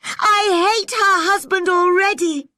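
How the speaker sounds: very high, loud tearful wail; sobbing. A narrator's reading. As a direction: cry it out, breaking on the last words. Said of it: "sobbed Anne".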